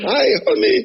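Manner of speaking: high, laughing mock sweet hello; sweet greeting. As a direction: imitate a syrupy Jamaican greeting with a laugh. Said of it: "So say".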